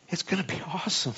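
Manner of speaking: real gleeful chuckle through the words; laughing. Real, not acted. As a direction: say it while breaking into laughter. Gleeful remark breaking into laughter.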